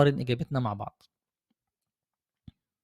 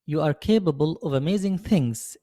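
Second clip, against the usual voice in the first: slow encouragement; much slower than usual. Shown as a demonstration. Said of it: "عايز أقول لك".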